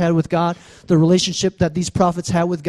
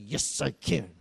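put-on defiant child; 5 semitones lower, 13 dB quieter than usual. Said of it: "He's like".

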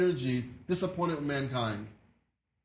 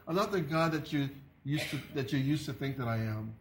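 tender voice of God. Retold or imitated. Voicing God speaking tenderly.

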